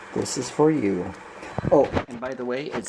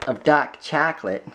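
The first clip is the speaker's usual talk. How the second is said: put-on Brooklyn accent; 2 semitones higher, slower than usual. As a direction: lean into a jokey Brooklyn accent. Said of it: "It's like my Brooklyn accent coming out".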